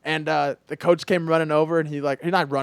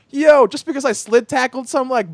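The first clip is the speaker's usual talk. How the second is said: raised, louder mock indignation; retold protest; 8 semitones higher, 7 dB louder than usual. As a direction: object to the coach, playing up the grievance. Player protests punishment to coach.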